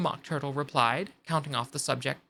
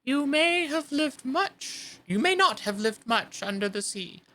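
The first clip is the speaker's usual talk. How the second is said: tearful; 8 semitones higher than usual. Acted. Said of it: "with tears running down his cheeks".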